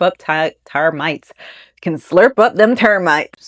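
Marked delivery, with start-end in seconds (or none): 1.8-3.5 lightly put-on country twang; folksy mock voice. Host redoing the termite fact, in jokey folksy voice. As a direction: redo it as a playful folksy aside.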